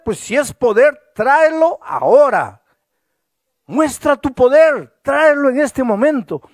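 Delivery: loud, high, impassioned pleading to God; fervent prayer. Retold or imitated. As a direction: cry out to God with burning faith. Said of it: "él oraba con tanto fervor".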